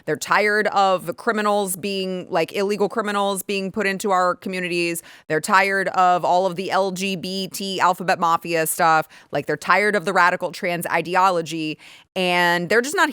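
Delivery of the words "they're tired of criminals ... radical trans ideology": mocking Democrats. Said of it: "they're doing this thing where they are like".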